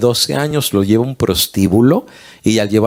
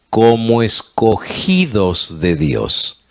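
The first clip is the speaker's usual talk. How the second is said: slow scripture reading; much slower than usual. Shown as a demonstration. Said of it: "Colosenses tres y el versículo doce dice".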